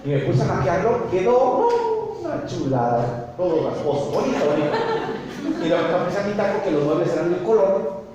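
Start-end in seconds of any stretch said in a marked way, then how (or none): 1.1-5.6 mock admiration. Ironic praise of ruined furniture.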